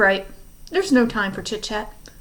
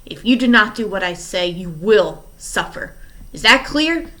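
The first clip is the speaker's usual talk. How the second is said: much louder, menacing villain; furious threat; 8 dB louder than usual. Acted. Stefano threatens the orphans with a knife, loud and menacing. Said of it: "red with fury".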